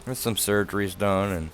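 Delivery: slightly slurred after dental work; speech a bit thick from dental work; talking funny after dental work. Real, not acted. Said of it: "I'm still talking funny from that".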